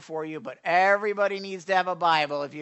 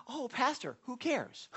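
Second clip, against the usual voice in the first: mock bored listener; 6 semitones higher, 5 dB quieter than usual. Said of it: "Now you say".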